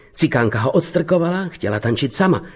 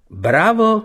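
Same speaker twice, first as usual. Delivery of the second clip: higher-pitched mock bellow of applause; theatrical cheer; 8 semitones higher than usual. A narrator's reading. Bernard cheering the horse trick, theatrical shout. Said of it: "zařval Bernard jako v divadle".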